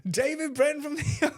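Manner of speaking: high, slow, drawn-out introduction; show announcer. Retold or imitated. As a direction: imitate a host announcing the contestant. Retelling the announcer introducing the contestant.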